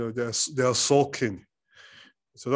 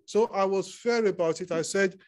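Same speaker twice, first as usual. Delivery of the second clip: higher, lightly whining sulky king; whiny king; 4 semitones higher than usual. Retold or imitated. Ahab complaining to Jezebel about Naboth, whiny. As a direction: complain like a spoiled child. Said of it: "He said".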